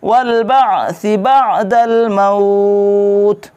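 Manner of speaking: slow, careful Arabic recitation. Shown as a demonstration. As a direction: model the kalima for learners. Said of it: "ভালো করে খেয়াল করবেন". (ধীরে স্পষ্ট আরবি উচ্চারণ)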